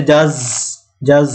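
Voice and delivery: জাজ with a voiced stop-hiss j; demo affricate j. Shown as a demonstration. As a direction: voice the j sounds of জাজ clearly. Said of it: "এটার উচ্চারণ হচ্ছে জ". (জাজ শব্দে জ উচ্চারণ দেখিয়ে)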